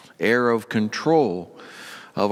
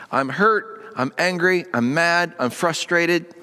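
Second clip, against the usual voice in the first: raised pitch, mildly worked-up listing; understated emotional outpouring, pitched higher; honest venting prayer; 5 semitones higher than usual. Acted. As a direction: vent it to God, complaint after complaint. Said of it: "most honest and uncontrolled way".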